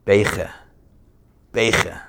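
Beiche with a Hasidic ei vowel and guttural ch; Chabad pronunciation. Shown as a demonstration. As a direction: say Beiche as Chabad does, ei and throaty ch. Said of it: "Here's what it sounds like".

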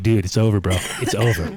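loud mock verdict to the crying friend; telling him it's over. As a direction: call it loudly, no hope left. Friend's chili ruined, calling it.

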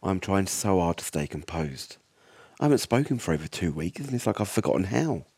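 tense first-person horror read; story narration. A narrator's reading. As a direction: narrate it like a survivor's diary.

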